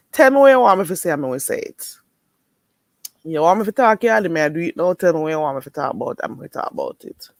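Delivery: fast, playful Jamaican patois. Pretend. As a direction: rattle it off in patois for the viewer. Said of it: "I don't even talk Yankee".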